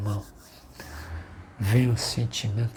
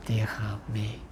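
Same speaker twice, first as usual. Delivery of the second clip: whispered; 7 dB quieter, slower than usual. Retold or imitated. Pastor recalls crying alone.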